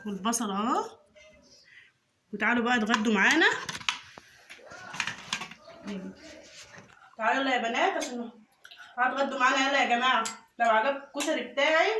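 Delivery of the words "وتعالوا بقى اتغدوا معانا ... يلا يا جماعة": calling everyone to the table; quick cheerful call to come eat; calling kids to dinner. Acted.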